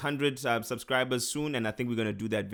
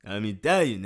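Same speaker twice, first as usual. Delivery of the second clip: mock Italian; 3 semitones lower, 4 dB louder than usual. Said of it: "I'm trying to sound like Rocky".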